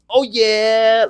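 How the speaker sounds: high, loud mock good-mood chirp; mock cheerful. Brother mimicking sister's happy mood, high mock chirp. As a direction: imitate her bubbly mood. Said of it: "just like".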